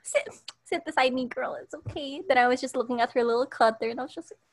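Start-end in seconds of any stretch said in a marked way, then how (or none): 0.0-2.2 comforting friend. Retold or imitated. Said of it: "she said".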